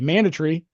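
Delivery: "mandatory" as MAN-duh-tree, British-style; British pronunciation. Retold or imitated. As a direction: imitate the British shortened ending of "mandatory". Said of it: "that's how he said it".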